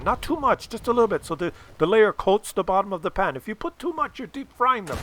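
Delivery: a hint of fussy dad instructing; lightly voiced instructing dad. Dad instructs cooking steps.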